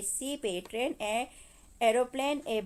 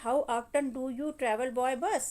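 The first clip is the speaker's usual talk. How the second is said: put-on slow, deliberate reading of the girl's question; Meena asking; much slower than usual. Teacher reads Meena's question to the class, slow and clear. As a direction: read the schoolgirl's line slowly and clearly. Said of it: "Meena नाम की लड़की पूछती है".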